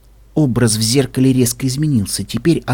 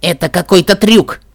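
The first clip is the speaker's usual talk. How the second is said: tense, higher accusing voice; hissed accusation; 4 semitones higher, 4 dB louder than usual. A narrator's reading. Pinkamena distrusts the mirror, hissing. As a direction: hiss it suspiciously, pitched up. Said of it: "прошипела Пинкамина".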